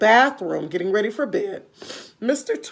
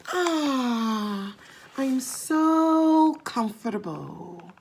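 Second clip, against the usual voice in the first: contented frog; 3 semitones higher, much slower than usual. Acted. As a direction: sink happily into the pillow as the frog. Frog settles to sleep.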